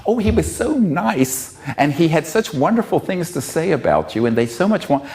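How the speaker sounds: high, sweet, gushing voice; gushing sweet quote. Retold or imitated. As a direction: imitate her gushing praise, pitched high. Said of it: "She says".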